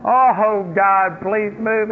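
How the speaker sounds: drawn-out "Oh, God, please move", slow and pleading; mock whining prayer. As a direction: imitate a whiny complainer, slow. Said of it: "you're wailing and you're whining".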